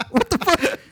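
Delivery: high, incredulous what the fuck; reacting to his friend's wild football take with real shock; shocked disbelief. Real, not acted. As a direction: blurt it out in disbelief.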